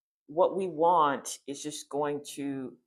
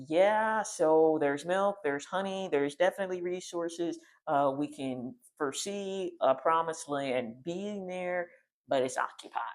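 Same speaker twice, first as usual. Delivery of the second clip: spies reporting; 4 semitones higher than usual. Retold or imitated. Spies tell the people of the rich land, amazed. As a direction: spell out the good news in wonder. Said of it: "they're like".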